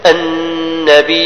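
النبي slowly, hamza eased; slow recitation of النبي. Shown as a demonstration. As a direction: draw out النبي with a softened hamza. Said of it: "الثانية فيها التسهيل أو الإبدال".

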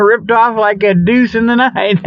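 giggling through the punchline; laughing. Real, not acted. Host laughing at his own pun, giggling. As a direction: crack up at your own joke.

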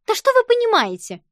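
very high, loud outraged retort; snapping back at a grown-up; indignant. A narrator's reading. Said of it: "возмутилась Юлька". (возмущённо, очень высоко и громко)

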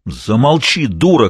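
loud, cutting shout to silence her; shouted order. Acted. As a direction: shut her up at once. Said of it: "крикнул Автандил".

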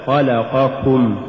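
slow خلقكم as one unbroken word; correctly joined word. Shown as a demonstration. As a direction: keep كم attached inside خلقكم, unhurried. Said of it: "الصواب". (نطق «خلقكم» كلمة واحدة ببطء)

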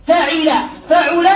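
فعل slowly as fa-ʕi-la, then fa-ʕu-la; change the middle vowel of فعل from "i" to "u"; drawn-out فعل twice, fa-ʕi-la, fa-ʕu-la; kasra then damma. Shown as a demonstration. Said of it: "بالحركات الثلاث والسكون".

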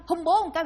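high, loud stiff-tongued request; effortful plea through a stiffened tongue; imitated stiff tongue. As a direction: imitate a dying man struggling to form words. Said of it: "mà tiếng hơi cứng á".

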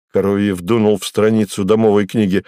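ordinary delivery, nothing marked

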